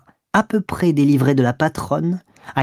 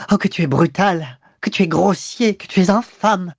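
higher, indignant cries; wounded outrage; 5 semitones higher than usual. A narrator's reading. Mistress hurt and outraged by his coarse words. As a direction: fling the insults at him. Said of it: "Elle dit".

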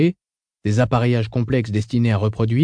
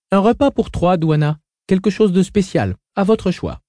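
on the intercom; 7 semitones higher than usual. Acted. Orders over the intercom.

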